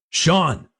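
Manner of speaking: high, desperate yell; shouting a name. Acted. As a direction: cry out his name in panic. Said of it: "I shouted".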